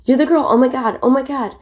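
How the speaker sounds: high, loud starstruck squeal; going nuts. Retold or imitated. Teenage fans meeting the actress, squealing high and loud. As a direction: shriek like a fan losing it. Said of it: "going nuts".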